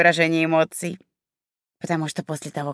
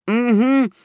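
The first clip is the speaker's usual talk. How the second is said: mocking. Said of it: "издевательски усмехнулся человечек".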